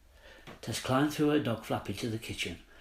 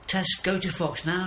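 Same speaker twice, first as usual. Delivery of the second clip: high, louder owl screech; urgent owl cry, hurry her off; 7 semitones higher, 4 dB louder than usual. Acted. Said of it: "screeched Owl".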